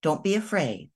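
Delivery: soft, gentle reassurance; a kind grown-up at the hilltop, soothing a nervous child; lovingly and kindly. Retold or imitated. Grown-up to scared child at the hilltop, gently reassuring. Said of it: "somebody lovingly and kindly says".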